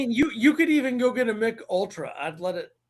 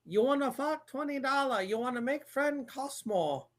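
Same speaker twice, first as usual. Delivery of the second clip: softer mock Asian movie-quote accent; 4 semitones higher, 5 dB quieter than usual. Host repeating a movie quote for guessers, softer mock Asian accent.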